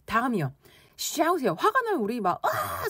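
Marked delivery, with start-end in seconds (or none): 2.4-2.9 angry yell. Shown as a demonstration. Teacher showing how people shout when angry, mock angry yell. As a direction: let out a demonstrative high "ah". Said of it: "소리를 질러요".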